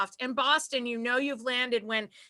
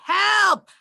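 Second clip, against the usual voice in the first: loud, high drawn-out plea; exaggerated comic yell for rescue; mock cry for help; 8 semitones higher, 8 dB louder than usual. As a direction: holler as if trapped, playing it up. Mock plea from house arrest.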